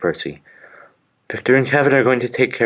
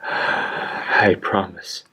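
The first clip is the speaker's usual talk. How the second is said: grieving engine promises dying friend; sighing promise; much slower than usual. Acted. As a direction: promise through a heavy sigh.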